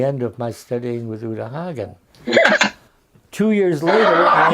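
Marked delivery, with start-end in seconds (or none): 2.3-4.5 laughing. Real, not acted. Laughing after punchline.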